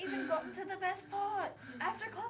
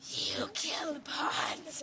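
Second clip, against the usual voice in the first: very slow shocked line; much slower than usual. Acted. Shocked at puppet death.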